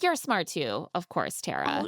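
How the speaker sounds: mock-kind condescension; condescending. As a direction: imitate an insincere compliment, falling away. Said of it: "condescendingly adds to Tara".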